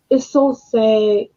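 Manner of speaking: soft, slow words after a sigh, close to crying; holding back tears. Real, not acted. Grieving a man killed by police, quietly near tears. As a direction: let it sink, fighting the tears. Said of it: "I'm trying not to cry no more".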